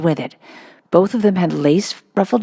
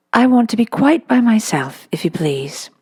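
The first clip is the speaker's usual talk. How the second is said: queer polite little voice; 6 semitones higher than usual. Acted. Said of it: "said a queer, polite little voice".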